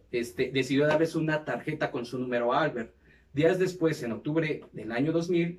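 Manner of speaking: measured documentary-style read; scripted narration. Acted. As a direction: read it out like a podcast history segment. Reads the episode script aloud.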